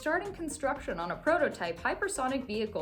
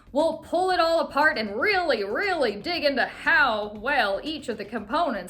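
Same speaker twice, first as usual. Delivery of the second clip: put-on southern accent; 5 dB louder than usual. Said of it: "why he had a southern accent".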